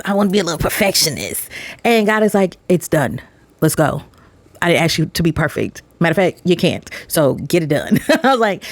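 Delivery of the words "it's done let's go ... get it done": lower, firm, no-nonsense voice of God; lower, steady and firm, settling the matter. Retold or imitated. Voicing God's firm answer.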